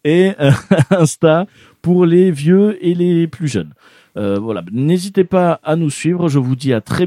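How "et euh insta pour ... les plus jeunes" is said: slow, louder words through a laugh. Real, not acted. Host teasing listeners about old folks, laughing. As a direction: chuckle through the joke.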